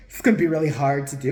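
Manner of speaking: lightly mimicked camp medium; a hint of an affected accent, imitating him; mock the medium's way of talking, lightly; Tyler Henry. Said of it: "he does talk like that".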